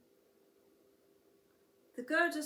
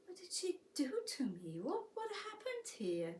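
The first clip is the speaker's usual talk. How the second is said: mumbled to himself; 7 semitones higher than usual. A narrator's reading. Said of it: "he mumbled to himself".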